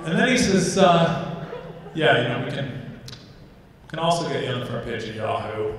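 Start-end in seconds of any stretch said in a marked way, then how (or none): 1.9-5.7 low, soft, sheepish telemarketer; subdued offer. Acted. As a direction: imitate a quiet fallback pitch, dropping away. Desperate operator's quiet fallback offer.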